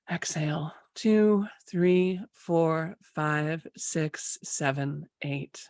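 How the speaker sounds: pace the group's breathing with the count; guided breath count. Acted.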